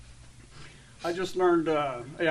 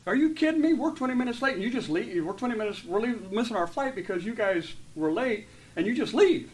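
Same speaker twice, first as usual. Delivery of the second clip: retold indignant outburst at the airline, higher and louder; copping an attitude; 4 semitones higher, 3 dB louder than usual. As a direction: replay the rant at the gate with mock outrage. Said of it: "I started to cop an attitude".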